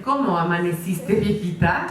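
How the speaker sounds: CÓMO AMANECISTE, VIEJITA rising at the end; questioning intonation. Shown as a demonstration. Husband to wife of fifty years, rising question on VIEJITA. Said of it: "pero con diferente entonación".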